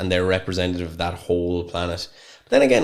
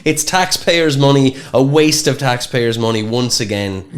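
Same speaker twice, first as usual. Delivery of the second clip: slow, louder mock indignation; hammed-up complaint; mock outrage; 5 semitones higher, 4 dB louder, slower than usual. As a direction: play the grumbling taxpayer. Mock outrage about waste.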